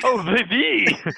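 "the" drawn out slow and loud; stress on the. Real, not acted. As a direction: lean hard on "the". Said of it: "with the capital T".

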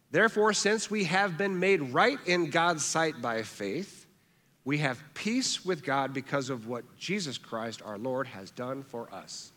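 slow the verse down so it sinks in. Shown as a demonstration. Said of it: "I'm gonna read that again a little slower".

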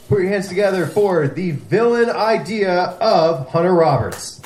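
building stage introduction; announcer introduction. Real, not acted. Host bringing a guest comic onstage, announcer style. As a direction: announce the act to the room.

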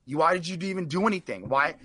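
lightly voiced dad asking why; father. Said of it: "He's like".

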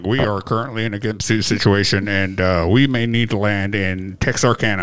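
airline captain announcement. Pretend. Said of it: "this is your captain speaking".

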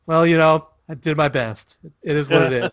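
casual, unfazed resignation; mildly resigned, no drama; cool acceptance. Retold or imitated. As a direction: shrug off defeat, imitating a calm loser. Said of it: "cool with it".

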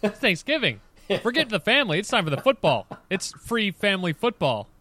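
hammed-up football fan protest; excited mock outrage. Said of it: "I'm like".

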